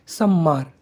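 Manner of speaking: सम्मार said clearly as "sum-maar", with a doubled m and a falling end; Chhattisgarhi word demo. Shown as a demonstration. Teacher showing learners the Chhattisgarhi word सम्मार, clear and careful. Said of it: "मेरी pronunciation पर ध्यान दीजिएगा".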